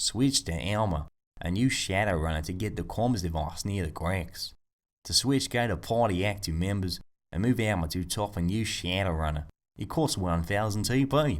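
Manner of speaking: put-on Australian accent, read aloud. Speaker reads out a commenter's helpful tip, in an Australian accent. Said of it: "I don't know why I said it in an Australian accent".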